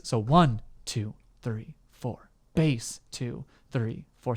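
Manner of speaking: BASS stressed on one; counting beats. Shown as a demonstration. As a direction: count the beat, hitting Bass. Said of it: "So can you say, do this?".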